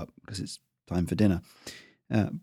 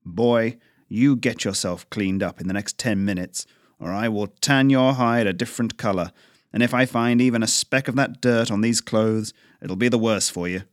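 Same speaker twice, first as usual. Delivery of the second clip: firm, mildly raised threat; stern father scolding; 3 dB louder than usual. Acted. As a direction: lay down the law to your son.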